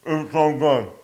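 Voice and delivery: talking through a mouthful; words around a bite of food; mouth full. Real, not acted. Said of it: "I sound like a caveman".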